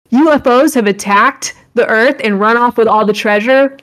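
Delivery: high, loud shocked heroine; anime girl disbelief. Pretend. Voicing heroine at TV.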